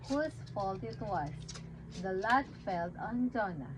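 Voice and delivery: put-on simple Bible story read to a baby; reading to children. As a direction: tell it gently like a bedtime story. Reads Jonah story to baby.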